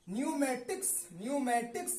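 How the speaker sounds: "न्यूमेटिक्स" starting on n, no p; silent p. Shown as a demonstration. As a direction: model "न्यूमेटिक्स" with the p left out. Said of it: "लेकिन पढ़ा नहीं". ("न्यूमेटिक्स" में प silent)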